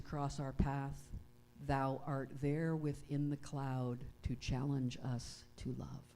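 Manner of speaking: slow, measured prayer with long pauses; unhurried, solemn address to God; prayer reading. Acted. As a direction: read a prayer reverently, phrase by phrase. Reads one of MacLeod's prayers aloud.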